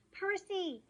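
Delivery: high urgent yell. Acted. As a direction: call out his name in alarm. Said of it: "Annabeth yelled".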